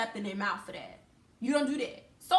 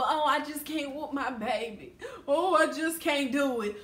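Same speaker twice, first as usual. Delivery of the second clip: mocking reluctant parent. Mocks a dad refusing to discipline.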